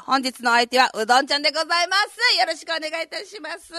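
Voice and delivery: hoarse, husky radio voice; rough scratchy throat on air; gravelly voice. Real, not acted. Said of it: "ちょっとガラガラ声でね". (ガラガラ声)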